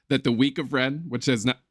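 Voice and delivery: hiccuping mid-sentence; hiccups. Real, not acted. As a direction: talk through the hiccups. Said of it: "oh, excuse my hiccups".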